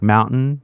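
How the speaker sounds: MOUNTAIN with the T swallowed; don't release the T in MOUNTAIN. Shown as a demonstration. Teacher gives a California example, MOUNTAIN with no sounded T. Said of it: "we don't say the T".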